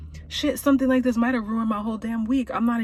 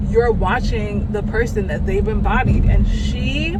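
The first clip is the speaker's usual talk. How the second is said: louder, higher, gushing praise; excited raving; 4 semitones higher, 8 dB louder than usual. Real, not acted. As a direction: rave about her like a fan. Raving about Viola Davis' acting.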